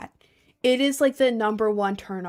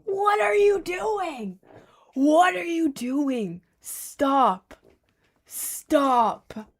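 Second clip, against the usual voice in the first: mock horrified reaction; 6 semitones higher, much slower than usual. Mock reaction to cringe video.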